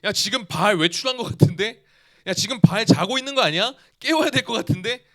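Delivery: lightly voiced taunt, rising at the end; a hint of a sneering prophet poking fun; mocking tease. Preacher voicing Elijah teasing Baal's prophets, mild mockery. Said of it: "진짜 그렇게 놀려요".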